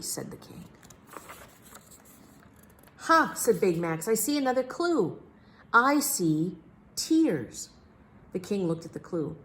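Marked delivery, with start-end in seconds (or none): 3.0-3.3 high, loud triumphant burst. A narrator's reading. Big Max finds another clue. 4.1-7.7 higher, very slow on the tears; Big Max voice. A narrator's reading.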